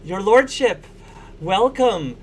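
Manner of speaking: high, eager greeting with a smile; excited young admirer. Acted. Rosie kneeling to greet her fun uncle, high and excited. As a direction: pitch it up, smiling and flustered. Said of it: "she has this big smile on her face".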